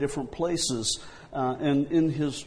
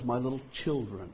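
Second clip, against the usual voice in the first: gentle; 6 dB quieter, faster than usual. Retold or imitated. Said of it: "the gentleness".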